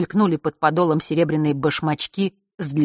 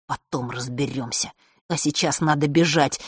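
seethe it under your breath; angry hiss; 3 semitones lower than usual. Acted. A boy hissing at the girl to run, furious. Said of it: "и зло прошипел".

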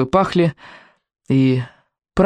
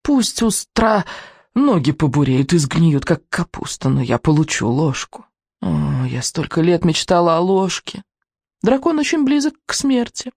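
hissing witch voice; 2 semitones higher than usual. Acted. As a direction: play the witch savouring it. Witch voice in the dark.

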